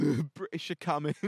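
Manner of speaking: put-on Australian accent. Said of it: "that was Australian".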